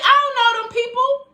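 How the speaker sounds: lightly voiced, high-pitched, teary-sounding version of herself; hammed-up self caught sobbing at a film, speeding up and laughing at the end; mock crybaby self. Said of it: "'cause I be like".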